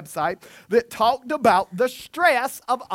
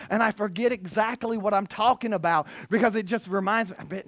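usual speaking voice

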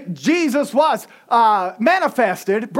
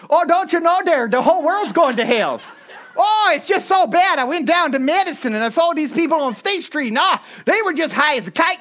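put-on Northerner accent; 4 semitones higher than usual. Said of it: "say it like a Northerner".

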